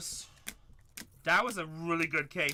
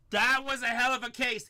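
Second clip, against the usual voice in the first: louder, with THAT punched; emphatic repeat; 5 semitones higher, 4 dB louder than usual. Real, not acted. Breaker repeating praise of the case, louder and emphatic. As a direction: say it again with more punch.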